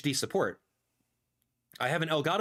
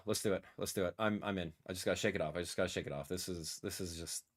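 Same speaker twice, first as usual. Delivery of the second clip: much lower, much softer, under his breath; muttered to himself; 8 semitones lower, 8 dB quieter, faster than usual. Real, not acted. Streamer shaking off disappointment, quiet mutter to himself. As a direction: talk yourself through it quietly.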